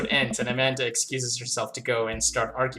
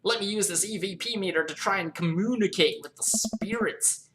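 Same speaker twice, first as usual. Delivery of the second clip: lightly voiced TV ghost hunter, raised pitch; ghost-hunter character; 6 semitones higher than usual. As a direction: put on a higher ghost-hunting trucker voice. Voicing the TV ghost-hunting twin.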